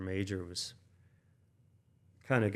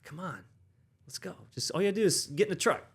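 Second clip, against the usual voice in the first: mock coaxing; 9 semitones higher, 4 dB louder than usual. Urging coworker to come out.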